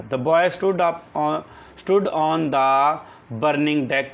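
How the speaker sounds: very slow, word by word, for copying down; slow dictation. Shown as a demonstration. Teacher dictating a definition to the class, slow and deliberate. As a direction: dictate each word so the class can write it.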